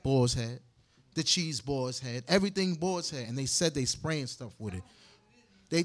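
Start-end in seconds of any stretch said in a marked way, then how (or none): 0.0-3.3 mocking the answer. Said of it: "What kind of bazaar is that?".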